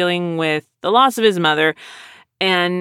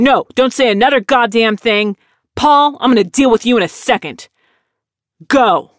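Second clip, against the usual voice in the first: louder, sharp commands rising to a final bark; retold angry boss; 4 semitones higher, 5 dB louder than usual. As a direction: cut them off like an enraged boss. Boss shutting down employees.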